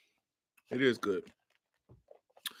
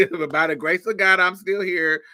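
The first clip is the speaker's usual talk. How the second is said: mock church testimony; 2 semitones higher, 3 dB louder than usual. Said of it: "here you go with this church shit".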